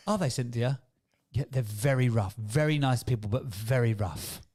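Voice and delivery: lightly imitated posh exchange; posh mum. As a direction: play a mildly posh mum in conversation. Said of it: "my posh mum used to say".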